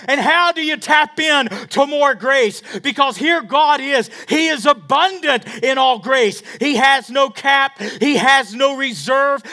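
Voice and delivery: loud, high-pitched revival preaching; fiery preaching. Acted. Pastor exhorting his church, loud and high. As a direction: drive the grace message home to the congregation.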